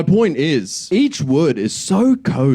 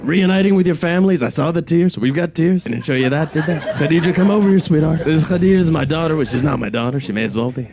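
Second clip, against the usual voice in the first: Trump impression, rambling and boastful; 3 semitones higher, faster than usual. Comedian imagining Trump at a press conference, rambling boast. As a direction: ramble like a self-satisfied president. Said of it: "he comes out and he's like".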